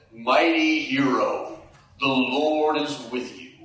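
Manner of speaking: slow, weighty "Mighty hero" of an angel; slow angelic announcement; solemn angel. Shown as a demonstration. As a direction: read it like a grand proclamation. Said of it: "You gotta just read it like that".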